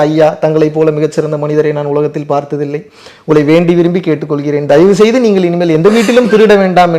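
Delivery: a hint of a grovelling, formal plea to a thief; mock humble plea. Policeman begging a thief to stop stealing, mock humble. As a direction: beg the thief politely, tongue in cheek. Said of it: "தாழ்மையாக கேட்டுக்கொள்கிறேன்".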